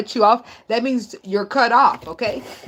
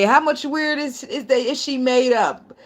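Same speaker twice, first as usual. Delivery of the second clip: higher, slow mock questioning; acted questioner; 5 semitones higher, slower than usual. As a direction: voice a nosy question, drawn out. Voices others asking about her.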